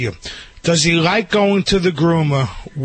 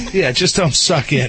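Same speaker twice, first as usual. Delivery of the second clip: laughing; 2 semitones lower than usual. Real, not acted. Laughing echo of a joke.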